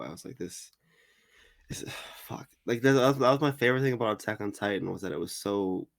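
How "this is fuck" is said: breathy whispered despair; exasperated sigh. Real, not acted. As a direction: sigh it out, defeated.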